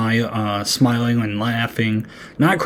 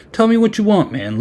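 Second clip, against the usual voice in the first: mocking squeaky plea; 9 semitones higher than usual. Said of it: "you wouldn't say that".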